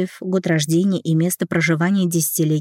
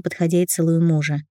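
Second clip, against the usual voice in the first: usual speaking voice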